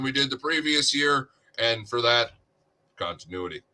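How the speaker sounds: monotone front-office spin; flat, scripted press conference; robot voice. Retold or imitated. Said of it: "I can hear the fucking postseason press conference".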